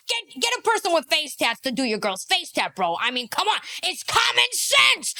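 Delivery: exasperated comic rant, rising in pitch; mock exasperation. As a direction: start worked up, climb into incredulous insistence. Mock exasperation at the tattoo advice.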